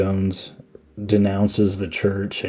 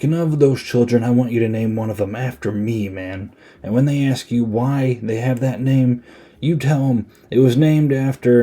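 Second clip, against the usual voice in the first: lightly imitated rousing speech, pitch lifted; mock inspirational speech; 4 semitones higher than usual. War buddy asking his friend to name a child after him, mock inspirational. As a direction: give it a buddy's mock-earnest pep. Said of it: "doing this big inspirational speech".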